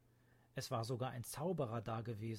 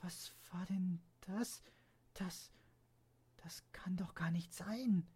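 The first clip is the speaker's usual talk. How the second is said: startled; 6 semitones higher than usual. Acted. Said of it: "Vor Schreck".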